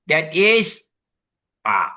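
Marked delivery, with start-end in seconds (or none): 0.1-0.8 "is" drawn out high and loud; "That is" declared with raised, forceful emphasis; emphatic stress on IS. Shown as a demonstration. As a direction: hit the word "is" hard in "That is". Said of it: "this is emphasis".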